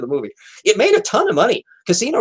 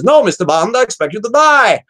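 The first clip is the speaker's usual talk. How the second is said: imitating Goldfinger; 6 semitones higher, 4 dB louder than usual. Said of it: "He says".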